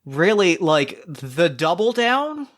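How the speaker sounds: amused, smiling 'really?' then slow teasing follow-up; smiling disbelief. Acted. Veld grinning at the stranger's lie, smiling disbelief. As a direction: grin through it, delighted at the bluff. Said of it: "she smiles and she's like".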